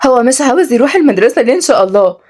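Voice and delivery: a touch of disbelief; puzzled. Acted. Kenzi asking why he skips school, puzzled. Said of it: "قالت كنزي باستغراب".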